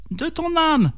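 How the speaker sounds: very high snake voice; storybook tempter in a high register; devil serpent. A narrator's reading. Serpent telling peasant the price, high creature voice.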